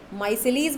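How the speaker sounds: माइसेलिस beginning "my", ending "-leez"; variant pronunciation. Shown as a demonstration. Teacher listing how some people say it, माइसेलिस pronounced "MY-se-leez". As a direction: say माइसेलिस with three syllables, "MY-se-leez". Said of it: "कुछ लोग इसको".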